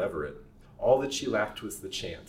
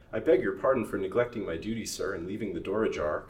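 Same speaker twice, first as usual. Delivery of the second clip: humbly. Acted. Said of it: "concluded the man, humbly".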